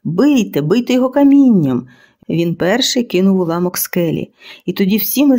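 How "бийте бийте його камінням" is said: rising loud order to attack; rally the troops, louder on камінням; battle cry. A narrator's reading.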